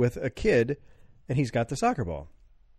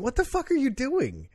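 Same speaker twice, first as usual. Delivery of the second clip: inner voice; 13 semitones higher than usual. Retold or imitated. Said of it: "something in my head going".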